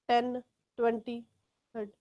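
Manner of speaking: gentle teacher model of "Ten, twenty, thirty"; careful light t. Shown as a demonstration. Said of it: "say them very lightly".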